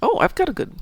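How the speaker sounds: high breathy whisper; excited whisper. Real, not acted. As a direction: whisper it, thrilled at the find. Excited whisper over good loot.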